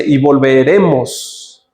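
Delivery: "volveremos" drawn out slowly and leaned on; stress on volveremos. Shown as a demonstration. Teacher pointing out Abraham's plural promise, stressing "volveremos". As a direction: linger on "volveremos" to mark the plural. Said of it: "así como en plural".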